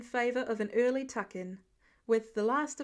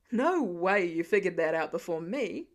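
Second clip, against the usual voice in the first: lightly voiced dad; 6 semitones lower, 4 dB louder than usual. A narrator's reading. Father protests losing game.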